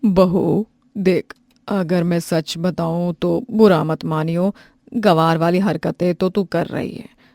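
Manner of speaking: mother-in-law scolding her daughter-in-law; stern mother-in-law. Acted. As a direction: lecture her firmly.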